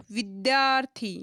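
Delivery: विद्यार्थी said clearly with a falling end, leaning on the long आ; teacher demonstrating how विद्यार्थी sounds; sounding out the word. Shown as a demonstration. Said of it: "अब इस शब्द को बोल के देखो".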